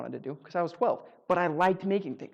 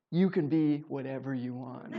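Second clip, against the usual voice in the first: laughing; 4 dB quieter, slower than usual. Retold or imitated. Counselor excited, laughing retelling.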